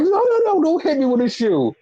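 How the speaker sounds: high, hurried plea that drops as it goes; mock panic. Acting out Renee afraid of a flying shoe, mock panic. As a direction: imitate someone pleading not to be hit.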